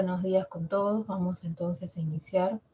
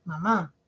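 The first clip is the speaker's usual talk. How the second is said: mamá with the weight on the final má; stress on last syllable. Shown as a demonstration. Teacher showing the class where mamá is stressed, slow and clear. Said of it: "recae en la última sílaba".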